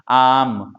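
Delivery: आम with the आ drawn out; long vowel demo. Shown as a demonstration. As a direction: stretch the आ in आम for the class. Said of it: "ऐसे आप बोलेंगे तो कुछ ज्यादा समय लगेगा".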